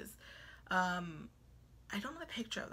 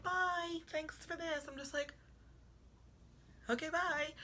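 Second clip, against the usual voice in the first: high chirpy voice; 8 semitones higher than usual. Retold or imitated. Guests leaving with centerpieces.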